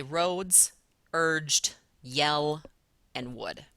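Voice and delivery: each of "roads", "urged", "yell", "wood" weighted and set apart; heavy beats on "roads", "urged", "yell", "wood"; stressed syllables picked out. Shown as a demonstration. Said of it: "So I'm gonna hit, say".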